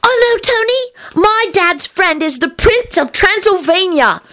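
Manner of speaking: put-on gasp, then very high, slow child squeal; high-pitched gleeful discovery; delighted shriek. A narrator's reading. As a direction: burst out like a thrilled small child. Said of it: "Teddy shrieked delightedly".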